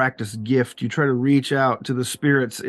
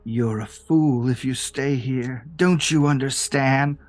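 alien voice. Acted. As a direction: speak like something else inside him. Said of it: "An entirely another alien voice".

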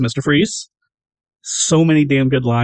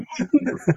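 Billy-style laugh; 10 semitones higher, 5 dB quieter than usual. Acted. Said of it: "laughing like Billy from Predator".

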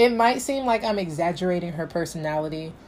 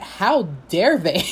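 retold indignation; slower than usual. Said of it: "was so mad".

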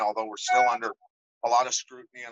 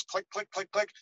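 soft, higher clicking tic noises; imitated tic clicks; 7 semitones higher, 4 dB quieter than usual. Mimicking the friend's tic to the receptionist, clicking. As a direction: click it out like a twitch. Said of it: "he always do this chirp thing and twitch".

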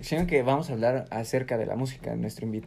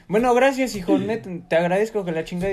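imitated father; 6 semitones higher than usual. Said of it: "y me dice".

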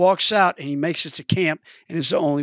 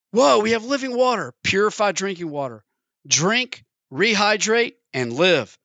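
excited; 4 semitones higher than usual. Acted. Man reading label, thrilled.

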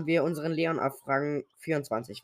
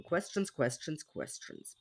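fading to a whisper; 9 dB quieter, slower than usual. Pretend. Playful chant of the word.

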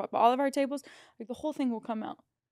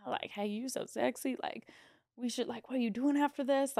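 sleazy flirt; 6 dB quieter than usual. Retold or imitated. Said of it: "saying weird sexual shit to me".

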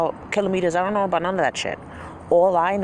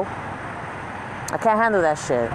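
slowed down; much slower than usual. Shown as a demonstration.

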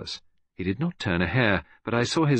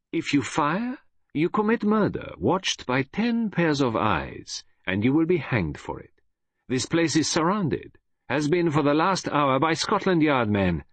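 put-on high, deliberate accented warning; triumphant Belgian detective; 7 semitones higher than usual. Detective tells gunman the place is surrounded, high and assured. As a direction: warn him high and slow, Belgian-accented. Poirot declares checkmate.

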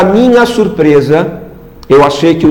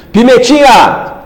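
high, slow delighted call; excited greeting; 7 semitones higher, slower than usual. Real, not acted. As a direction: call out the nickname with joy. Greeting a fan joyfully.

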